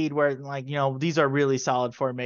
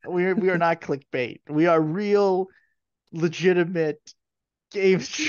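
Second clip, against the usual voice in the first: raised, louder mock-solemn declaration; mock serious; 4 semitones higher, 4 dB louder than usual. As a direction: say it with a fake straight face. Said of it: "I can't keep a straight face".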